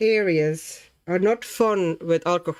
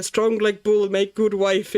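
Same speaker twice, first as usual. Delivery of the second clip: lightly put-on Latvian accent; a hint of hammed-up Latvian accent; mock Latvian accent. Joking about being strong from Latvia, mock Latvian accent.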